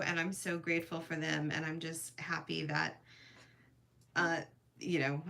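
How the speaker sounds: ordinary talk, nothing marked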